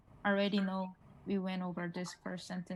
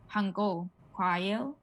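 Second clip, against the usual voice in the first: English-style Korean; much faster than usual. Shown as a demonstration. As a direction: say them long, the English way. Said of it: "if I have to say it in English".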